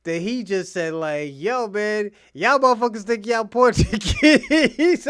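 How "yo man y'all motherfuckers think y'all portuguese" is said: loud, higher mock rant in a Jamaican lilt; imitating a furious Jamaican coworker, loud and high; angry Jamaican guy. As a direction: yell it like the guy going off on her.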